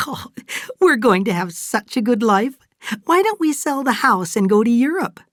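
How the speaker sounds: high, loud, gushing enthusiasm; giddy excitement. Acted. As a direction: propose a grand plan with the voice soaring. Fay laughs, plans a good life.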